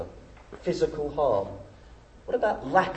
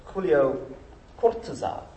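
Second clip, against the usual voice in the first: Spanish name. Shown as a demonstration. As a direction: say Julio Cortázar the Spanish way, Cor-TA-zar. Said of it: "sorry about the accent".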